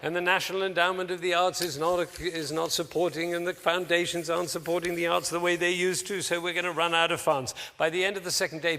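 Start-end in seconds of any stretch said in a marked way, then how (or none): 0.0-7.5 insistent mock doom-saying; downward spiral speaking. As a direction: pile up the bad news like a pessimist. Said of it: "what I call downward spiral speaking".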